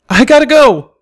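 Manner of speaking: put-on loud high yell of a teen filly; shouted. A narrator's reading. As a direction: burst out the words in a hurry. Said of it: "Sparkler shouted".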